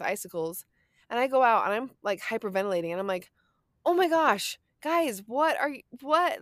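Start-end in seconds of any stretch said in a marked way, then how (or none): 3.9-6.4 retold panic, high and loud; shrill burst of fright as she finds them; panicked relief. Panicked mom finds missing kids.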